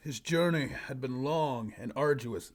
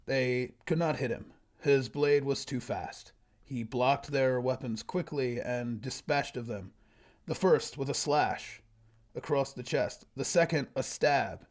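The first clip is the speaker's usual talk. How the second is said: story narration. Acted. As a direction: read it out like a solemn fantasy tale. Reads own old story aloud.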